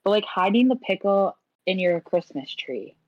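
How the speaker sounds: slow, with a long pause after "hiding the pickle" before "in your Christmas tree"; dramatic pause. Acted. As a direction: hold a suggestive beat after "pickle", then drag out "your Christmas tree". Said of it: "you shouldn't say hiding the pickle and then just go quiet".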